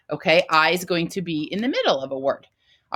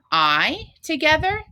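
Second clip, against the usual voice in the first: "I together" drawn out slowly, "I" pitched up high; stretched letters; 9 semitones higher than usual. Shown as a demonstration. Teacher spells I together for class, slow and high. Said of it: "teaching letter names".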